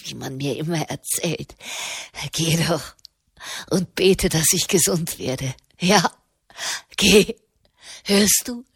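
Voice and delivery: low, bitter old woman's voice, lightly voiced; grimly mocking mother. A narrator's reading. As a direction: sneer it out at her pious daughter, low and grim. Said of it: "lachte grimmig in sich hinein". (tiefe, grimmig spottende Stimme der kranken Mutter)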